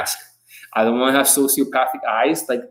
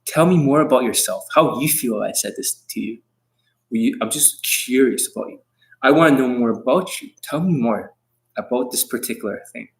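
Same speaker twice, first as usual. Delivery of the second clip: caring tonality. Shown as a demonstration. Pickup coach to a girl, caring tonality. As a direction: draw her out gently and kindly. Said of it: "switch my tonality to a more caring tonality".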